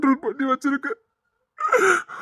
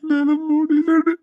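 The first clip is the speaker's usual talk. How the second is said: crying; 3 semitones higher than usual. Acted. Heartbroken man at wedding.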